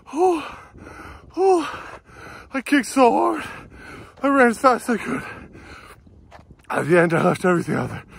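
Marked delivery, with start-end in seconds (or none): 0.1-5.2 breathless, high-pitched joy; elated. Real, not acted. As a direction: shout out the win, thrilled. Just broke nine minutes, elated.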